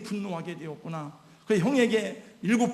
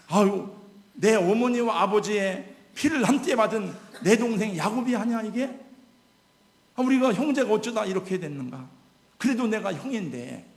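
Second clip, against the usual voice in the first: louder, higher pained cry of an elder brother; Esau's anguished thought; 4 semitones higher, 6 dB louder than usual. Acted. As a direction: cry out as Esau realizing his brother. Preacher voices Esau's inner thought. (에서의 북받친 외침)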